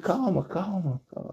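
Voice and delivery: soft soothing repetition; retold calming. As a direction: hush someone gently, keeping it soft. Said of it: "aí eu tentei acalmar ele".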